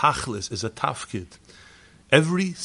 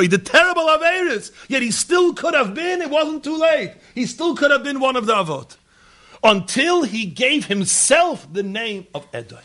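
much higher, louder preaching shout; shouting sermon; 12 semitones higher, 6 dB louder than usual. Acted. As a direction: cry it out from the pulpit. Preacher's climax on Esav.

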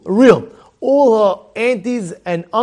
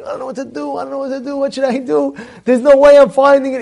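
imitated panicky girl, high and rushing to a louder end; flipping out; 5 semitones higher, 3 dB louder, faster than usual. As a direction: fret helplessly in a higher voice. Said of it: "she's flipping out".

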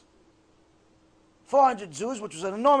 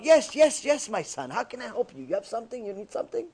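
patient, gentle reply. Acted. Patient sage answers the caller again.

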